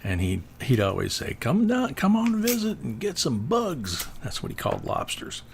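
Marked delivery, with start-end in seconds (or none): 1.4-4.1 high-pitched imitation of a Boston accent. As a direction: quote a friend in a thick Boston accent. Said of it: "with the thick Boston accent".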